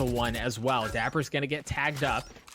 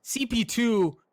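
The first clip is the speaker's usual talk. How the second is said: excited; 8 semitones higher than usual. Real, not acted. Caster still hyped after play.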